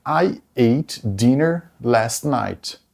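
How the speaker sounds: very slow, careful English; slow example read. Shown as a demonstration. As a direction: say each word clearly for learners. (bem pausado)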